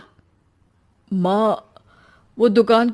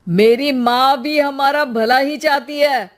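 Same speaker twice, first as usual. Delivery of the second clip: shouting; 5 semitones higher than usual. Acted. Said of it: "अरे पर चिल्ला क्यों रहे हो".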